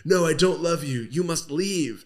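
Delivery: high-pitched mock heroine; melodramatic rejection. She creates dramatic tension sending Pinocchio away, mock melodrama. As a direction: send him off in a hammy high voice.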